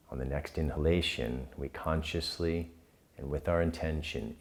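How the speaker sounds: calm, unhurried guiding with long pauses; guided meditation. Real, not acted. Leads the breathing practice.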